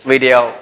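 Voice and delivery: video said VID-ee-oh, clean d; corrected video; correct pronunciation. Shown as a demonstration. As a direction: video modelled right. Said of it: "it is".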